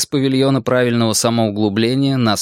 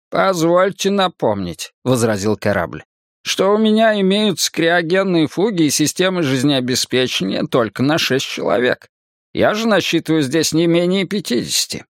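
lightly voiced polite ship AI; spaceship; 5 semitones higher than usual. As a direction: object politely, like an onboard computer. Ship objects to Aenea.

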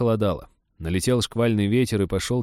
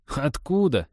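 amazed; 6 semitones higher, slower than usual. Acted. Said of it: "изумился друг".

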